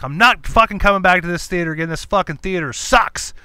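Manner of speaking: father storming out of the theater, loud. Retold or imitated. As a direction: announce it angrily as you leave. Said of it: "I'm like".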